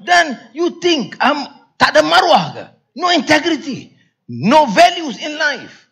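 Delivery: imitated earnest scolding; Karpal Singh lecturing. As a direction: voice a friend insisting on his duty, pitched high. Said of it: "Itu kata Karpal".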